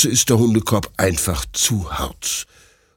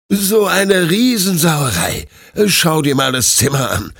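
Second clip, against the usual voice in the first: scolding; 8 semitones higher, 4 dB louder than usual. Acted. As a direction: tell off the pup for the mess. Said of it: "schimpft Detlef".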